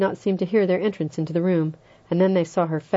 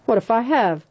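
higher and louder, snapped; sharp retort; 6 semitones higher, 4 dB louder than usual. A narrator's reading. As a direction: bite back defensively. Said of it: "Philip Lombard said sharply".

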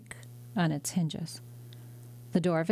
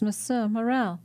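calling out; 4 semitones higher than usual. Acted. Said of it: "cried a voice on the stairs".

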